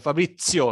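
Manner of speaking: Fabrizio with a "ts" for the Z. Shown as a demonstration. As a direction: demonstrate Fabrizio as "Fa-BRIT-tsio". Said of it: "T plus S".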